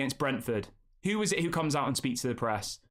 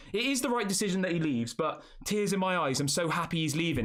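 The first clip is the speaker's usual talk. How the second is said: mocking quote; 3 semitones higher than usual. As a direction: drag it out to ridicule the post. Mocking fans' social media posts.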